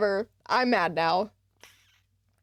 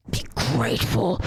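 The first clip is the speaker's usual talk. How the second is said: much lower, firm rebuke; deep stern be grateful; low growled scold; 13 semitones lower than usual. Real, not acted. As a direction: drop the voice and scold him. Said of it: "scolding game character".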